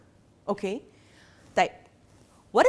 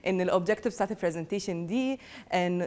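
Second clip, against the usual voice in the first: low, droning recap fading softer; imitating boring presenter; 3 semitones lower, 6 dB quieter, faster than usual. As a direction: rattle off a dull list, trailing away. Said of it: "felt extremely bored from this presentation".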